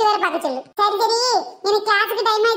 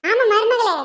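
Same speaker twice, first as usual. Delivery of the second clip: tamil mother-in-law; 3 semitones higher than usual. Acted. Mother-in-law mocking kurma.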